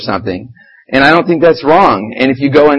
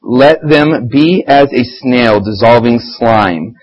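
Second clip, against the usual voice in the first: scripture reading; much slower than usual. Shown as a demonstration. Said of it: "Here's another good part".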